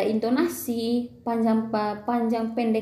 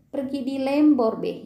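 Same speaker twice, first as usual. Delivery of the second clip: slowed Manggarai Lembor dialect demo, lilting Lembor intonation. Shown as a demonstration. Teacher showing students how Lembor people talk, in Lembor dialect. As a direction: give the phrase a Lembor Manggarai lilt. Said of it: "eh, orang Lembor".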